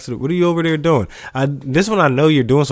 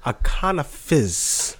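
mock British; 6 dB quieter, slower than usual. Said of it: "they gonna be like".

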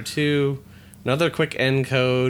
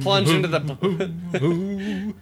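laughing through line; 6 semitones higher, slower than usual. Acted. Reads comic, laughing mid-voice.

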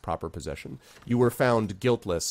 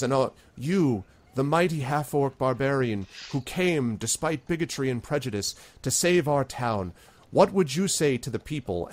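lightly voiced town leader; 4 semitones higher than usual.

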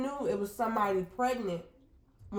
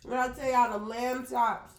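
talking through a mouthful; words round a bite of food; mouth full; 3 semitones higher than usual. Real, not acted. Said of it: "Excuse me for talking with my mouth full".

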